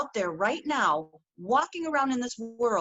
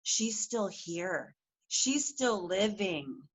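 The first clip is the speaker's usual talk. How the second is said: slow, soft reassurance; 3 dB quieter, slower than usual. Real, not acted. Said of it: "turn it around and say".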